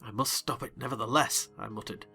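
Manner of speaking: ordinary talk, nothing marked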